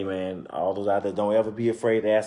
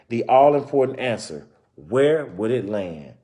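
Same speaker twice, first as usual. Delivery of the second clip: story narration; 3 dB louder than usual. Acted. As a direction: clear read-aloud storytelling voice. Reading picture book aloud.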